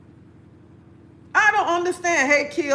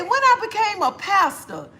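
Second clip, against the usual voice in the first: high-pitched mock disbelief; incredulous retort; 8 semitones higher than usual. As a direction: act out your own baffled comeback, pitched up. Retells her incredulous reply.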